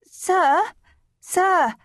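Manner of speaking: high, loud eager calling out; keen to get the teacher's attention; eager pupil. Acted.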